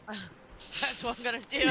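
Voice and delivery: real amusement bubbling through the line; laughing. Real, not acted. Player laughs at GM's advice.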